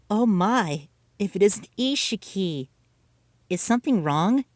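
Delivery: syrupy false charm; fake sweetness. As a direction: suddenly play the nice girl. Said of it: "faked her kindness".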